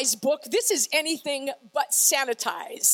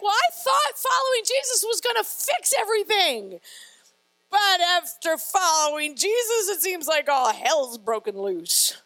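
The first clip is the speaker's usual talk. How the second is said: disillusioned complaint; 2 semitones higher than usual. Acted. Voices a disillusioned follower's complaint.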